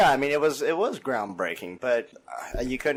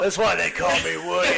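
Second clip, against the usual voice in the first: mock Woody voice; 4 semitones higher than usual. Mock Woody line, laughing.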